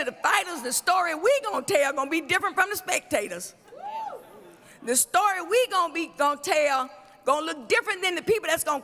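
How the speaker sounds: fiery preacher cadence; preaching. Acted. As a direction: preach it to the crowd. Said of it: "I'ma act like I'ma preach".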